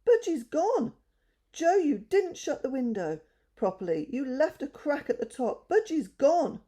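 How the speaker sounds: high, loud panicked cry; a girl crying out as her budgie escapes; screaming in dismay. A narrator's reading. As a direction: wail that the bird has flown. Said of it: "Bessie screamed".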